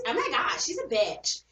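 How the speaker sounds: mock a white girl saying it. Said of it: "I had to use my white girl voice".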